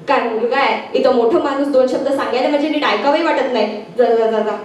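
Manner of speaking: low-pitched, mild exasperation; grumbling father. Acted. Father complaining about heedless son, low grumble. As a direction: mutter a complaint about the youngster.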